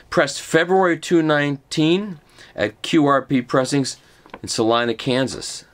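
formal product-blurb read; reading a pamphlet aloud. Real, not acted. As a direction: read out the certificate like an announcement.

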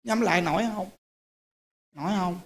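gentle question. Retold or imitated. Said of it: "thì Đức hỏi".

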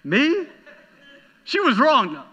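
high, whiny protest; a high, mock-indignant whine; whiny self-defense. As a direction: whine it like a child caught out. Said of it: "I'm like".

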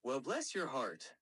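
drawling Southern trash talk; Southern American character; Southern US accent. Shown as a demonstration.

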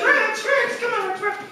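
very high, coaxing dog call. Retold or imitated. Boy calls dog upstairs, high-pitched coaxing. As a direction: squeal the name to lure a pet.

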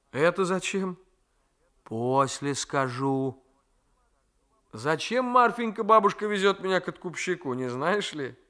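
a nephew daring fate to strike; defiant young man. Acted. Raisky asks Marfenka.

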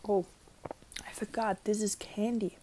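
chewing between words; mouth full while talking. Real, not acted. Seen 0: Bitten mochi in hand; jaw and lips show chewing through 3.5.

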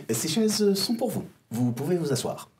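robot voice up high. Acted. The robot speaks to players.

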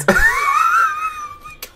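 loud, very high shrieking laugh; shrieking laughter. Real, not acted. Gamer losing it over a freak goal, shrieking with laughter. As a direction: burst into a helpless high-pitched cackle.

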